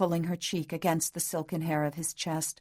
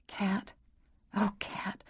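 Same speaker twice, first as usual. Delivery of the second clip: soft, trembling whisper of her name; quavering whisper; 3 semitones higher, 5 dB quieter, slower than usual. A narrator's reading. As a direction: whisper it, voice shaking with pity. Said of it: "His voice quavered as he whispered".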